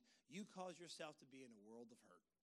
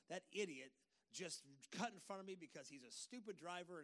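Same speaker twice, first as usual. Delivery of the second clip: driver's road rage. Retold or imitated. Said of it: "use my vernacular because this is what I would say if I was driving".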